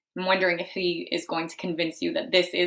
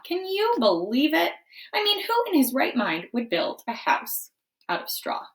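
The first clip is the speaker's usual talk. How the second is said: wolf narrator; 4 semitones higher, 4 dB louder than usual. Acted. Wolf narrates his story.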